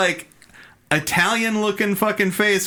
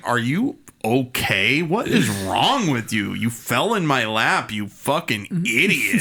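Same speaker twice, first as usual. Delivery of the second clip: deadpan Vulcan; 4 semitones lower than usual. Retold or imitated. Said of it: "he's really Vulcan about it".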